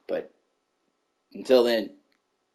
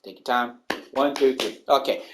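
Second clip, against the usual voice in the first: calming myself down; 7 semitones lower, 6 dB quieter than usual. Real, not acted. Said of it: "I'm getting mad".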